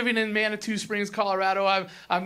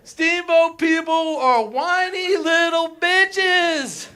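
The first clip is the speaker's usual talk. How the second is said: mock outrage; 6 semitones higher, 3 dB louder, much slower than usual. Real, not acted. Insulting locals to crowd.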